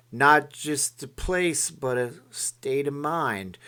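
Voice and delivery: slow, drawn-out light Garth voice; Garth impression. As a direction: stretch it out like a hesitant Garth. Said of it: "do your really great Wayne's World Garth impression".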